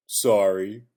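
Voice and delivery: lightly voiced mock baby apology; a hint of a big baby, insincere. Big Show mockingly apologizes to Steph, light baby voice. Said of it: "in a big baby voice".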